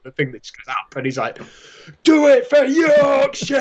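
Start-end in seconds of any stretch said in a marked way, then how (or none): 2.0-3.6 high, drawn-out rallying yell; imitated boardroom war cry, loud and stretched; Sean Bean. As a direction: bellow it slowly in hammed-up Yorkshire. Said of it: "yelling at this room full of".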